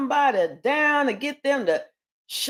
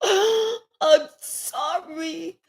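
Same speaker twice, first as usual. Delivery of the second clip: sobbing apology; 5 semitones higher, much slower than usual. Acted. Remorseful King begging forgiveness.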